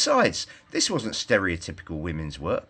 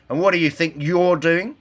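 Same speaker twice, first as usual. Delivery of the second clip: higher and louder indignant cry; 8 semitones higher, 5 dB louder than usual. A narrator's reading. Red Riding Hood crying out at the woodchopper. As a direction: demand it loudly, outraged. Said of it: "cried Little Le-, Red Riding Hood".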